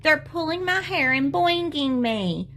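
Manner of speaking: a touch of tearful whine; upset tattling. A narrator's reading. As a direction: tell on them, upset. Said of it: "she cried".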